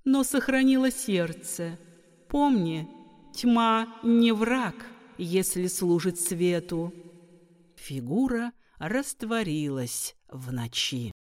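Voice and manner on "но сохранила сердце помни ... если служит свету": wise goddess. Acted. Goddess counsels Maria.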